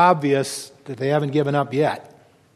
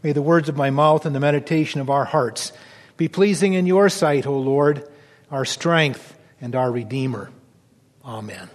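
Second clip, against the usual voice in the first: bow your head and pray in a hushed voice; pulpit prayer. Acted. Pastor leading the congregation into prayer, hushed and reverent.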